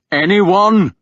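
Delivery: high loud furious shout. Acted. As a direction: bellow it out in rage. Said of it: "I shouted".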